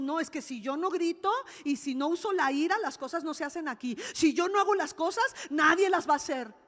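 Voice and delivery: mock scolding that builds in volume; indignant imitation. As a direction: insist like someone used to controlling by yelling. Acting out women who control by anger.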